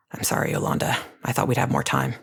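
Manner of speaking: rough, breathy apology; raw whisper. Acted. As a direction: rasp it close to the ear. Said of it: "raw like those first burnt nudists".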